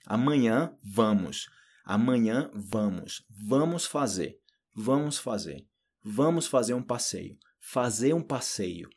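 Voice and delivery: slow repetition drill, phrase by phrase; deliberate pronunciation practice; word by word. Shown as a demonstration. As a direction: say each chunk slowly and evenly to be copied. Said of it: "pode ser palavra por palavra".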